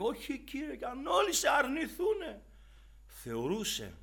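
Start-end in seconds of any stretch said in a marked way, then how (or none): 0.0-2.4 high-pitched mock protest; hammed-up cry of a disciple; Peter's boast. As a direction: voice Peter's bold promise, pitched up. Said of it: "Ενώ φώναζε και έλεγε".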